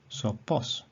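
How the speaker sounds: "sopos" accented on POS, rising; stress on last syllable. Shown as a demonstration. Teacher repeating the example, "sopos" stressed on POS. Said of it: "the accent is upon the ultima".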